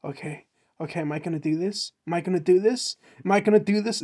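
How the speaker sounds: mock psyching up, rising each time; anxious self-questioning. Girl wondering whether to do it, mock nerves building. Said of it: "and the chick is like".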